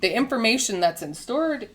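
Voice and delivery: talking through hiccups; hiccuping mid-sentence. Real, not acted. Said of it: "excuse me, I have the hiccups".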